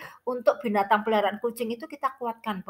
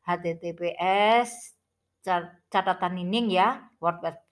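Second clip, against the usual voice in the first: toothache; slower than usual. Real, not acted. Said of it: "saya ini sakit gigi, ini kursinya bengkak, jadi agak belepotan".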